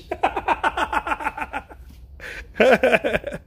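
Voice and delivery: long, high-pitched laugh; drawn-out giggling laughter; real laughing fit. Real, not acted. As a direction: crack up at your own joke. Cracking up at own joke.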